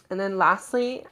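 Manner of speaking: ordinary talk, nothing marked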